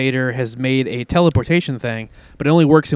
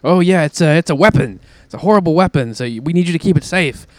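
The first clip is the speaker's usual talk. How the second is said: lightly acted teasing, a bit higher; mock teasing; 3 semitones higher, 3 dB louder than usual. Invaders teasing Zim about the delivery, mock teasing. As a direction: put on a mild tease, feigning earnestness. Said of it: "they start teasing him".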